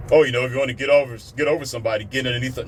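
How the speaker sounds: fast mocking sing-song of bad advice; mocking quote. Mocking someone's bad breakup advice, fast sneer. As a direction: rattle it off like a know-it-all. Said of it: "Don't start talking that B S".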